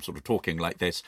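spitty lisping politician voice; Roy Hattersley lisp. Retold or imitated. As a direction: put on a wet lisp for the line. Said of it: "known for having a sort of lisp".

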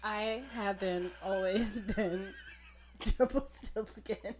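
langzaam, plechtige verteller die steeds door de lach breekt; Aaron Mahnke voice. Pretend. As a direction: probeer een duistere verteller te spelen maar lach. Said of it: "Using your Aaron Mahnke voice".

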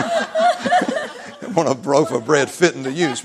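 slow, words drawn out through laughter; barely getting the words out for laughing; laughing quote. Retold or imitated. Preacher retelling the bread demand while laughing.

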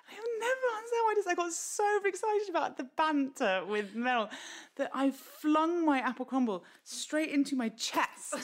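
giggling through the words; can barely get it out for laughing; laughing while talking. Real, not acted.

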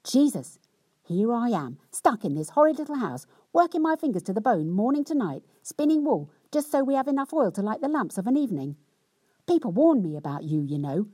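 mock-indignant wife's rant; rather cross. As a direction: nag her husband crossly for coming home. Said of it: "she said rather crossly".

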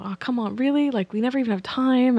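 mock irritated whine, "really" jumping up high; imagined annoyed partner. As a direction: play the put-out boyfriend, half in jest. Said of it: "disappointed and sort of pissed off".

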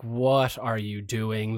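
low, very slow aside; appalled disbelief. Retold or imitated. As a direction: draw it out softly, aghast at a bandmate. Bandmates' appalled reaction, retold.

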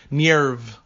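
"Nerve" with a Russian "nyet" glide; Russian-style accent. Shown as a demonstration. Podcaster showing the dub's odd pronunciation, mock Russian accent on "Nerve". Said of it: "a French or a Russian accent on nerve".

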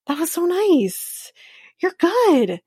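high-pitched, drawn-out compliment; imitated polite praise. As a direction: imitate someone politely gushing after a show. Imitating producer friend praising the performance.

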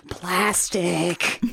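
mock wonderstruck delight; imitated excitement. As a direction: marvel at it, hushed and stretched. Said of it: "He's excited".

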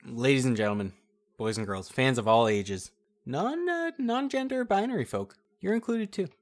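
booming ring announcer intro; grand entrance announcement. Pretend. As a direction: hype up the crowd like an arena MC. Announcer opening the tournament round.

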